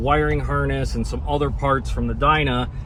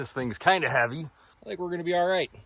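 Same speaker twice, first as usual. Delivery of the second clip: breathless, out of breath, quick, soft-spoken; 3 semitones higher, 7 dB quieter than usual. Fitting a heavy load into a truck bed, the speaker is out of breath. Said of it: "Excuse me being out of breath".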